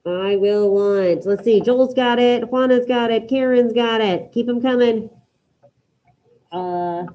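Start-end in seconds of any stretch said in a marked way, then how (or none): 0.1-1.3 very slow, deliberate prompt; slow dictation. Shown as a demonstration. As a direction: spell it out slowly for the class. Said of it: "I need I will want".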